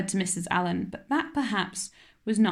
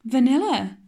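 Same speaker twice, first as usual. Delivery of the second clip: mortified; 4 semitones higher, 6 dB louder than usual. A narrator's reading. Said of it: "her face scarlet with mortification".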